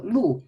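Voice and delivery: LU with a falling fourth tone. Shown as a demonstration. Teacher showing the fourth tone, falling LU. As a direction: drop the pitch through LU. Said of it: "fourth tone is a falling tone".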